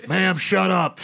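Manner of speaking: loud comic telling-off; half-orc shout. Acted. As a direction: shout her down, playing it for laughs. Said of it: "As a half orc".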